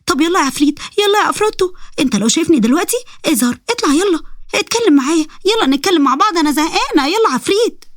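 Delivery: put-on high girlish voice, coaxing; excited high-pitched pleading; eager Sara. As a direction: beg the demon to appear, high and playful.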